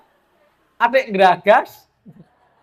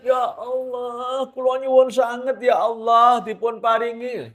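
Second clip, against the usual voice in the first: tearful prayer; 5 semitones higher than usual. Retold or imitated. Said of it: "Sampai nangis".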